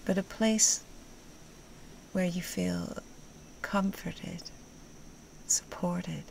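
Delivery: gentle meditation guide, long pauses between phrases; guided meditation. Acted. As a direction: guide them unhurriedly into comfort, phrase by phrase.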